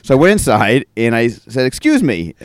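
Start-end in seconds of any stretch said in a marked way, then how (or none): 1.6-2.3 a little loudly. Retold or imitated. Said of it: "a little loudly".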